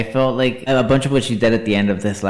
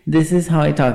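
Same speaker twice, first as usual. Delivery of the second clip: Laganja; 7 semitones higher than usual. Retold or imitated. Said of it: "She's like".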